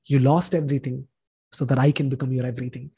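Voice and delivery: low, softened voice of gentle reassurance; quiet, low-pitched comforting words; kind divine reply. Retold or imitated. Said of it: "God was so kind enough".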